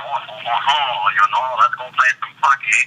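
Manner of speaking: imitating Canadians with drawn-out O's; mock Canadian accent. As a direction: put on a Canadian accent, stretching each "oh". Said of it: "people in Canada are like".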